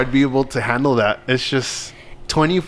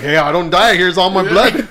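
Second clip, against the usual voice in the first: cheerful offer; 5 semitones higher, 4 dB louder than usual. Pretend. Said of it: "It's like".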